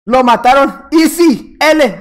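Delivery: punchy taunting shout; mock toxic gloating. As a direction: crow over the kill, jokingly. Taunting a killed rival as a joke.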